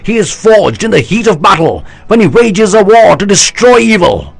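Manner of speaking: high loud oratory, slowing at the end; rousing speech. A narrator's reading. General rallying his army, loud rousing oratory. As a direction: stir the troops with every word.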